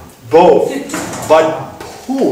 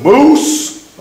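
much higher and louder, repeating moose; emphatic repeat; 12 semitones higher, 6 dB louder than usual. Retold or imitated. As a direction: shout the word again so they get it. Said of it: "A what?".

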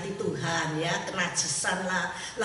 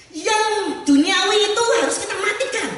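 preaching emphasis; 11 semitones higher, 8 dB louder than usual. Real, not acted. Preacher drives home the point.

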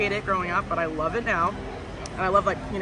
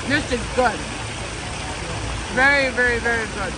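speaking between bites; talking while chewing. Real, not acted. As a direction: mouth partly full of food. Seen 0: Eats sandwich throughout; mouth moves between bites while talking.

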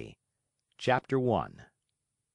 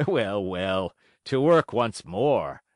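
put-on old carpenter, slow resolve; 3 semitones lower, 3 dB louder, slower than usual. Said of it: "laughing and scratching his wig".

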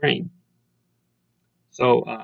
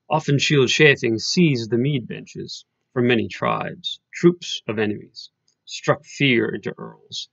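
poem recitation. Acted. Reading translated opening lines to students, measured recitation. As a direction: recite the translation deliberately, line by line.

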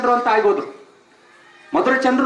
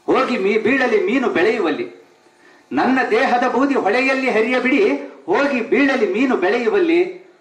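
measured, lingering poetry reading; poem recital. Acted. Speaker recites a poet's verse to the audience, lingering. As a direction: savour each line of the verse.

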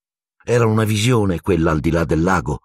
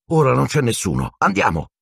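much higher, pressing go-now call; urgent call; 7 semitones higher than usual. Acted. Harry urging Hermione to run to Hagrid's, urgent. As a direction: hurry her along.

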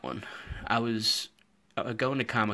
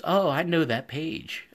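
put-on excited kid; 8 semitones higher, 5 dB louder, slower than usual. Excited boy voiced in story.

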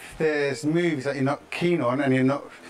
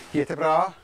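Swedish. Acted.

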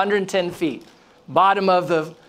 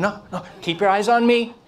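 higher, gently urgent correction; insistent redirecting; 4 semitones higher than usual. Retold or imitated. Instructor to a student looking around, insistent. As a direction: imitate an instructor holding someone's attention. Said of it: "they started looking around and".

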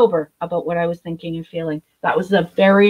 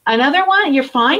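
mocking counselor; 7 semitones higher, 4 dB louder than usual. Counselor challenging her in rehab.

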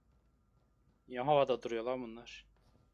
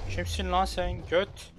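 slow angry challenge; 5 semitones higher, 5 dB louder, slower than usual. Real, not acted. Confronting the crazy man.

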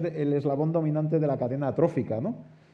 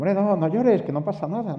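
higher and louder, urging him to stop crying; urgent reassurance; 7 semitones higher, 6 dB louder than usual. Retold or imitated. The narrator tells the crying canoe driver not to cry, urgently and loudly. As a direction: call out to calm the frightened man.

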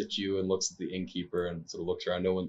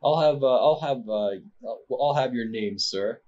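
louder, higher haughty demand; 4 semitones higher, 3 dB louder than usual. Acted. Nobleman demanding the player's name, haughty. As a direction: demand it from your superior height.

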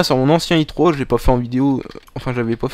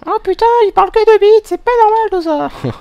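deep voice; 7 dB louder than usual. Acted. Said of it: "rien que faire la voix grave, ça nique la voix".

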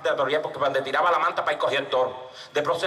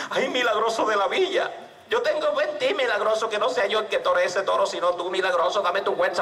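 raised, urgent plea easing off; pleading prayer; 3 semitones higher than usual. Acted. Scared teller begs his saint.

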